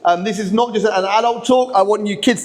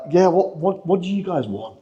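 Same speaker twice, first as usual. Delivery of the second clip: mock reluctant reply, trailing off softer; resisting, wary; 3 dB quieter than usual. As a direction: stammer it out as if dodging a demand. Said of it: "with that kind of tone of voice".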